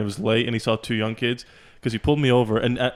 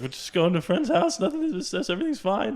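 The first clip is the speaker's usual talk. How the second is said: nervous; 8 semitones higher than usual. Retold or imitated. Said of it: "I was so nervous".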